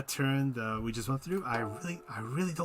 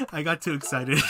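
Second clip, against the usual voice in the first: laughing; 3 semitones higher, 3 dB louder than usual. Real, not acted. Laughs at own mistake.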